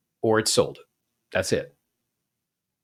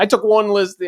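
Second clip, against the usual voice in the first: much higher pitched, offended huff; mock indignant outrage; 9 semitones higher, 3 dB louder than usual. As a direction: imitate a follower taking personal offence. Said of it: "people freak out".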